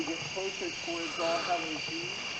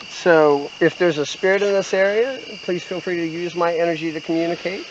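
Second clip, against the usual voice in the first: talking to a ghost; 3 semitones higher, 7 dB louder than usual. Real, not acted. Calling out to spirits in cemetery.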